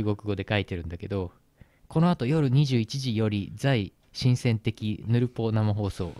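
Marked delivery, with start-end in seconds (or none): 1.9-6.1 slow, put-on fake Chinese reading. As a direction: read it like mock Chinese. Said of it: "適当なエセ中国語を足して".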